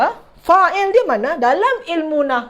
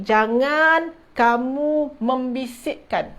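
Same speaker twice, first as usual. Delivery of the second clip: slow model sentence; much slower than usual. Shown as a demonstration. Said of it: "teacher models the correct form".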